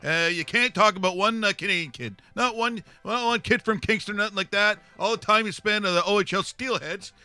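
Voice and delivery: high, loud, blustering hockey commentator voice; ranting hockey pundit character. Acted. Pundit tells panel who'll be a great player, ranting character voice. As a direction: bluster on and let nobody interrupt.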